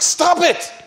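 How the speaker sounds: high, loud exasperated cry of stop; mock panic, throwing up his hands; freaking out. Scholar begging the Quran-quoting woman to stop, high loud cry. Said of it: "He, he started freaking out".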